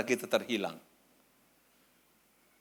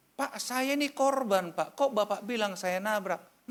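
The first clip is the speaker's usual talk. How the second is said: higher, slow, insistent protest; pleading protest; 8 semitones higher, slower than usual. Retold or imitated. Pastor protests to visitors that he is the victim, pleading. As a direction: plead your innocence, drawing the words out.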